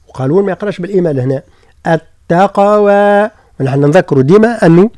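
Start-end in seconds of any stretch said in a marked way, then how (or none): 1.9-3.3 التقوى recited slowly with a clear open final a; tajweed word. Shown as a demonstration. Teacher models التقوى slowly, final a kept open. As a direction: stretch التقوى without tilting to e. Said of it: "تولي كأنها إمالة".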